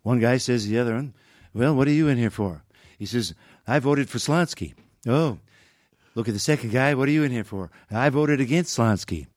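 understated presidential joke-teller; lightly voiced Reagan spinning a joke; Ronald Reagan. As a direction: tell it folksy, with measured pauses. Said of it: "He always told a joke".

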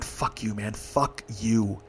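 low-key, soft curse; mean it under the breath, with restraint; quiet bitterness. Real, not acted. Addressing the man who slammed door.

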